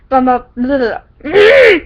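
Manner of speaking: laughing shout, pitch jumping up; cracking up and yelling the words. Real, not acted. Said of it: "I can't talk today".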